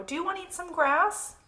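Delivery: high-voiced cow character; high animal invitation; storybook cow. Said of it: "said the cow".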